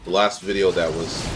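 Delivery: halting, repeating restarts; stuttering. Real, not acted. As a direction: stumble over the words. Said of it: "this fucking stuttering in the video is making me stutter".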